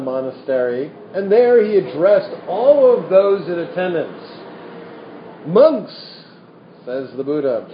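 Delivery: lively storytelling voice reading scripture; animated reading of a Buddhist parable; story narration. A narrator's reading. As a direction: tell the old tale to the room. Reads a sutta story aloud.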